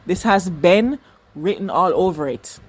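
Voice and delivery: measured Jamaican accent. Shown as a demonstration. Fan blames Ben for the fire, Jamaican accent. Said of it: "I'm gonna speak in my Jamaican accent".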